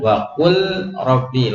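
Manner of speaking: "Wa kul robbi" with the l sounded fully before r; clear lam. Shown as a demonstration. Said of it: "lam sukun, bainiyah". ("Wa kul robbi" dengan lam sukun jelas)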